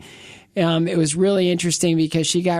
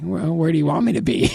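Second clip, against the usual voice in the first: joking smart guy; faster than usual. Retold or imitated. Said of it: "I said what any smart guy would say".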